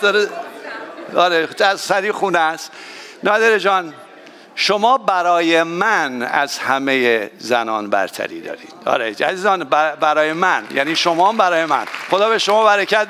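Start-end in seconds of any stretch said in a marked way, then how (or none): 4.5-8.7 slow, tender words to his wife; sincere compliment. Real, not acted. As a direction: say it slowly and mean it. Pastor tells his own wife.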